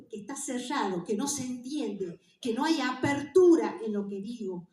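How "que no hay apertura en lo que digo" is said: "apertura" punched louder; "apertura" stressed and opened out. Shown as a demonstration. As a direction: lean hard on "apertura". Stressing the word for opening.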